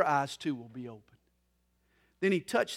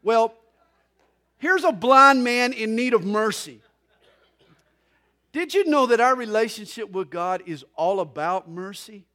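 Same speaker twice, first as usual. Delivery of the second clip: loud, emphatic pulpit voice; preaching; 6 semitones higher, 10 dB louder than usual. Real, not acted. Pastor turning from jokes to the need for mercy, emphatic preaching. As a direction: preach it with raised voice.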